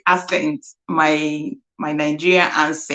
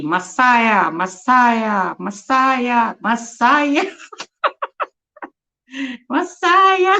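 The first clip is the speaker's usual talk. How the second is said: each Messiah higher than the last; rising repetitions; 5 semitones higher, much slower than usual. Real, not acted. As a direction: climb up with joy, ending in a squeal. Repeating the word, rising with joy.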